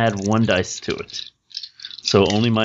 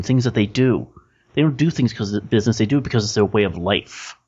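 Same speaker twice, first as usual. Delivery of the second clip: scornful street fixer, rising on his questions; lightly voiced fixer scolding a runner; bitter fixer lecturing. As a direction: lecture the shadow type with contempt.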